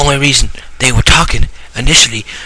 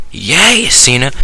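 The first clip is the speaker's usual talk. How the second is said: cheer; 3 semitones higher, slower than usual. Acted. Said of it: "Buddy Christ is like".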